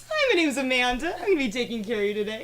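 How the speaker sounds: Barbie voice. Retold or imitated. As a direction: chirp it out like a sweet Barbie. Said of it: "So I had to do this Barbie voice".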